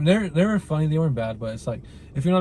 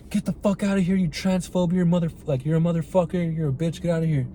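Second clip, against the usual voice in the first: mock angry yell; 5 semitones higher than usual. Retelling Shapiro's outburst again.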